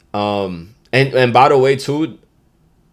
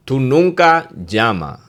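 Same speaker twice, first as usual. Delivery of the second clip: slow demo phrase; 4 semitones higher, 4 dB louder than usual. Shown as a demonstration. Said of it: "There's another good one".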